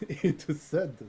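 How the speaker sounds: attempted French accent, halting, breaking into laughter. Coach reads note on request, French accent. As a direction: put on a French accent, amused. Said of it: "in French".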